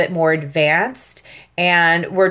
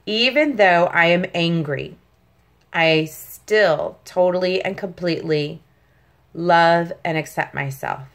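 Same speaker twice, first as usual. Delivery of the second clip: calm affirmation. Shown as a demonstration. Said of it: "One more time".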